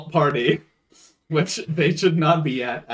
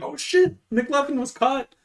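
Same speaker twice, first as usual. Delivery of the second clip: much higher panicked gasp; high-pitched fake alarm; mock panic; 12 semitones higher than usual. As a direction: blurt it out like they're busted. Friends panicking at cops.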